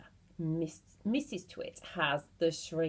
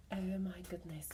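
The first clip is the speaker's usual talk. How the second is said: hushed shock; 9 dB quieter, faster than usual. A narrator's reading. Teller reacting to cliffhanger.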